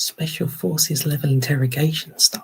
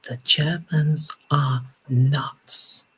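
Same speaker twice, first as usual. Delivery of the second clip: slow deadpan quote; much slower than usual. Retold or imitated. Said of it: "he actually said".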